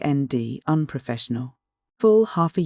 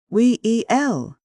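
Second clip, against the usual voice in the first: drawn-out, higher-pitched 'well'; a long, hedging 'we-e-ell'; confidential; 8 semitones higher, 4 dB louder, much slower than usual. A narrator's reading. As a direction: stretch the word slowly, pitched up. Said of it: "in a more confidential tone".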